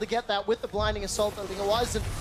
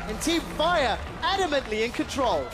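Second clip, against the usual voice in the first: slightly raised shoutcast; play-by-play; 5 semitones higher than usual. Real, not acted. Caster reports Team Fire pulling ahead, energetic play-by-play. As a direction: call the winning team's push with energy.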